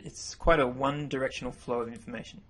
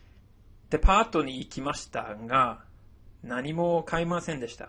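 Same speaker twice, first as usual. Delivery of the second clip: model sentence read. Shown as a demonstration. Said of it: "An example".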